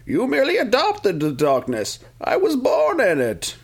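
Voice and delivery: high, slow mock villain voice; Bane voice. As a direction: ham up the villain line. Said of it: "he has this line. He's like".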